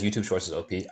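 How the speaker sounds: talking through a bite; chewing while talking. Real, not acted. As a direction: mouth still half full. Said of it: "sorry, I'm chewing".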